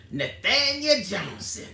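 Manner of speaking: lightly voiced Baptist church announcement, slowed on the name; mock-introduce the pastor, hushing on our pastor; a hint of a church program announcer. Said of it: "sound like an old Baptist preacher name".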